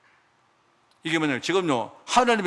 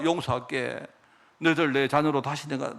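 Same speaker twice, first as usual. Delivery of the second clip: tender reassurance; 3 semitones lower than usual. Acted. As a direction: hush them like a parent taking it back. God soothing hurt children.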